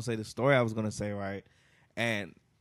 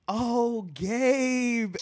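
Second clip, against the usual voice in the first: imitating a woman, much higher and louder; mock her sudden sweet recognition, pitched way up; hammed-up high "Oh, Gabe" of a woman who finally recognizes him; high fake-sweet woman; 11 semitones higher, 5 dB louder than usual.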